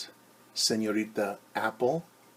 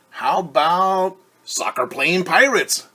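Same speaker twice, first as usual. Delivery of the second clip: higher, louder eager pitch of an idea; eager suggestion; 8 semitones higher, 12 dB louder than usual. Acted. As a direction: pitch the idea to friends excitedly. Girl eagerly proposes a game.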